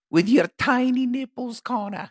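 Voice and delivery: high, goofy fighter voice; mock fighter's taunt. Podcaster playing along as a fighter taunting his opponent, high mock voice. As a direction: taunt him in a put-on high voice.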